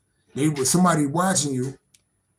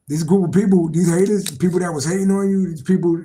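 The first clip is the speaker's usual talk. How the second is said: louder, punchy calling out of the haters; loud emphatic; 3 semitones higher, 6 dB louder than usual. Real, not acted. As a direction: bang it out at the haters.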